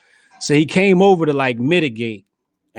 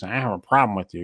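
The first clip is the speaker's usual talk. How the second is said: Urkel voice; 4 semitones lower, 3 dB quieter, faster than usual. Retold or imitated. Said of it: "He talks like Urkel".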